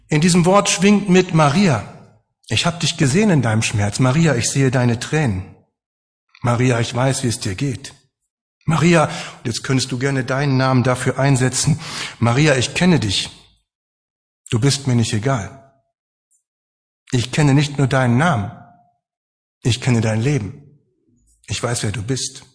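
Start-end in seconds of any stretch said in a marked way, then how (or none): 1.3-9.0 comforting, loving. Acted. Jesus comforting the grieving Maria, tenderly. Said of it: "in einer tröstenden, liebevollen, empathischen Art". 12.2-22.4 comforting, loving. Acted. Jesus comforting the grieving Maria, tenderly. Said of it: "in einer tröstenden, liebevollen, empathischen Art".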